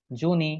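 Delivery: "জুনি" read as spelt, joo-nee; mock-literal "জুনি", two syllables; deliberate misreading. Shown as a demonstration. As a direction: misread June as "জুনি", ending in a clear ee. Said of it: "জুনি বলতে পারতাম না".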